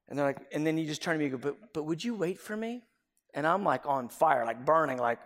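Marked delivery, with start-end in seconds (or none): 1.5-2.8 sheepish plea. Retold or imitated. Friend pleading sheepishly.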